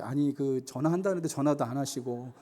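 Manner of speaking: a polite, mild-mannered complaint; gently. Retold or imitated. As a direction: ask kindly, without anger. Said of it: "그냥 상냥하게 얘기했겠죠".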